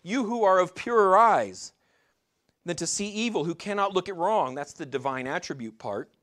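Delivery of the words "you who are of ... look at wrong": higher, louder mock protest to God; a hint of indignant pleading, pitched up; exasperated appeal. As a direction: lightly act out a frustrated prophet pressing his case. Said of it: "he's like".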